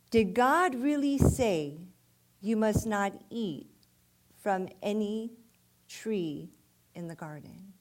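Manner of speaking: measured reading with long pauses; scripture reading. Acted. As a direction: read the verse out phrase by phrase. Reads scripture aloud to congregation.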